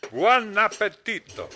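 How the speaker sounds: put-on hammy Italian waiter accent. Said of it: "that phony Italian accent".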